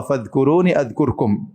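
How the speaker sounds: slow, solemn quotation; preacher quoting the Quran slowly; scripture quote. Acted. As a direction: let each word of the verse land. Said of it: "kata Allah".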